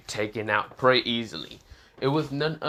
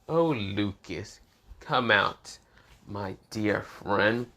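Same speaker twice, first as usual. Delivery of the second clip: sinister slow call; much slower than usual. Acted. Villain Asta summons Lucas.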